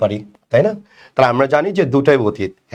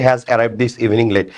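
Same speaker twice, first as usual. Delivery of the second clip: slow reading; 3 semitones lower, much slower than usual. Shown as a demonstration. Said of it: "আর এটা হচ্ছে".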